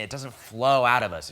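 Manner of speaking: usual speaking voice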